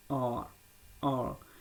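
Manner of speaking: आर with the tongue touching once, no vibration; untrilled r. Shown as a demonstration. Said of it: "stress उसमें ना दें". (बिना कंपन वाला आर)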